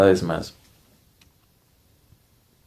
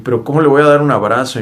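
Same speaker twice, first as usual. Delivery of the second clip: disbelieving protest; 4 semitones higher, 4 dB louder, faster than usual. Retold or imitated.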